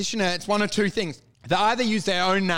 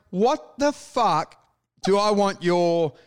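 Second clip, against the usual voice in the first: mock disgust. Complaining about a useless branded key ring, slow disbelief. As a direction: sneer at the freebie.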